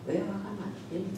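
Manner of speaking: very soft, tender asking; gentle question. Acted. God asking angry Cain, soft gentle question. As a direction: ask it gently, barely voiced. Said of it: "우리말은 좀 이렇게 부드럽게 번역이 돼 있어요".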